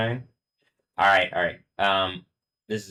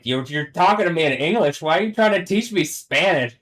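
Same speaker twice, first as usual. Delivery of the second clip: mock English accent; 9 semitones higher, 8 dB louder than usual. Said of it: "with a classy English accent".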